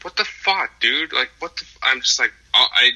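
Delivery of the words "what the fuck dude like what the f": sharp high mock exclamation of disbelief; a half-acted "what the fuck, dude" thrown at the dog owner; retold shocked outburst. Retelling the dog fight to the podcast co-host, in a high startled cry.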